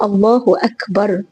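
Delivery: slow, heartfelt takbir; from the heart. Shown as a demonstration. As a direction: draw the words out and mean them. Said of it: "فقولها كده من قلبك". (تكبير بتمهّل من القلب)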